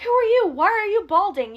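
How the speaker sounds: very high, loud mock tirade; imitated flaming. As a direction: mimic outraged daughters going off on him. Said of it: "Ash's daughters start flaming Santos".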